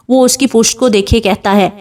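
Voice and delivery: ordinary delivery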